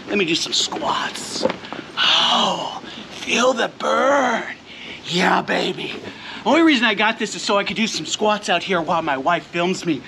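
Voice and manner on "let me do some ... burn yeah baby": mock gym grunting.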